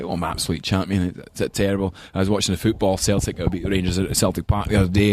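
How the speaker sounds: broad Glaswegian, rattled off as an impression; strong Glaswegian accent. Grandfather chatting to his grandson about the football, strong Glaswegian accent. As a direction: imitate a Glaswegian grandpa on the phone. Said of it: "had a really strong Glaswegian accent".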